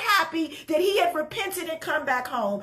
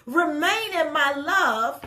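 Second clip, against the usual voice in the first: slow reverent reading; slower than usual. Acted. Preacher first reads the verse to the church, slow and gentle. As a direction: read the verse slowly and gently.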